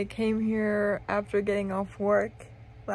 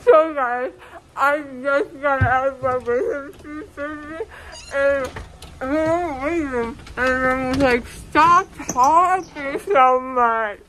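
laughing through tears; 3 semitones higher than usual. Real, not acted. Post-surgery loopy crying laughter.

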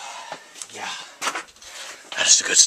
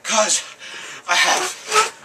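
put-on French accent; 6 semitones higher than usual. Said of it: "A French accent right now".

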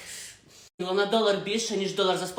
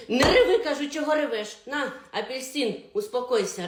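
granny scolding; 2 semitones higher, 3 dB louder than usual. Acted. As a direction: tell the crying girl off.

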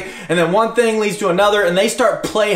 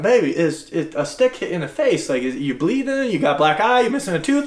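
tender concern; 2 semitones lower than usual. Retold or imitated. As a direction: soothe her gently while checking. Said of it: "And I'm like".

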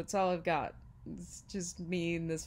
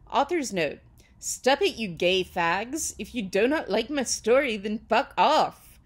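loud, emphatic mock-angry reading; author's note read-out; 3 semitones higher, 9 dB louder than usual. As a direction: hammer out a snotty author's note.

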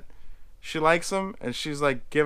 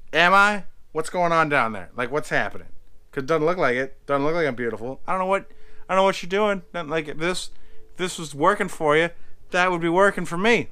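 upset retort; 2 semitones higher, faster than usual. Retold or imitated. Retelling Ruth upset at Ben.

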